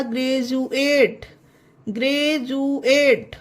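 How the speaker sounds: ग्रेजुएट with "ju" in the middle; ग्रेजुएट, D read as ज. Shown as a demonstration. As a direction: model ग्रेजुएट clearly with a J sound. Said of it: "यू ए टी आ गया तो होगा".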